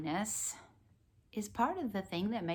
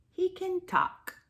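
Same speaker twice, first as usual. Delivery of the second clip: clock tock; 12 semitones higher than usual. Pretend. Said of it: "He can sound like a clock".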